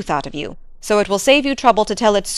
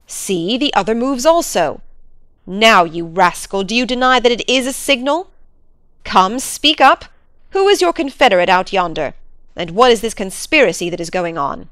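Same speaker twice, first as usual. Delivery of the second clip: furious baronet; angry Sir Henry. Acted. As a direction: demand an answer from a rascal. Baronet accuses the butler.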